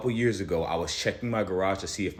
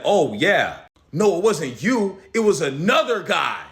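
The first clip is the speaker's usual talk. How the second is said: higher, louder put-on excuse; mock neighbor lying; 8 semitones higher, 6 dB louder, slower than usual. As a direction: ham up his backpedalling. Mocking neighbor's lie.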